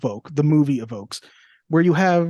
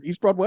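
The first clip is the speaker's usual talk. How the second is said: "East Broadway" with an unsure rise at the end; questioning lift on "East Broadway"; 2 semitones higher than usual. Shown as a demonstration. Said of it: "I'm saying it like a question".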